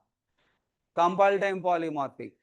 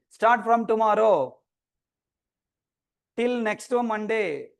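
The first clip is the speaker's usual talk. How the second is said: slow, stretched words, slightly raised; drawn-out announcement; 2 semitones higher, slower than usual. Real, not acted. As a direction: announce the dates slowly, drawing out each word. Announces online class dates slowly.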